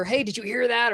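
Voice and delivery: excited call-out. Acted. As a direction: act out blurting it to the group. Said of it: "'cause I'm, you know".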